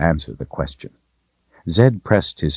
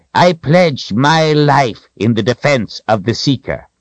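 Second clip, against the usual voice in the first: wizard's pledge; 8 semitones higher than usual. A narrator's reading. Wizard kneels beside her to swear, high firm pledge.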